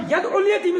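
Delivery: "يَدْعُ" said with vowelless dal; single short ayn in "يَدْعُ", no doubling; mispronunciation demo. Shown as a demonstration. Teacher quotes the misreading, "يَدْعُ" without doubled ayn. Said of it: "ترجمہ بالکل غلط ہو جاتا ہے".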